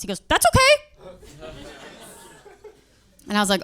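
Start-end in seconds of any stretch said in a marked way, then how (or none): 0.3-1.5 much higher, slowed-down odd voice; creepy customer. Retold or imitated. Customer shrugging off the fifty-dollar eggs, in a high slow creepy voice. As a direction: stretch it out, eerily calm and high. Weird customer calmly agreeing.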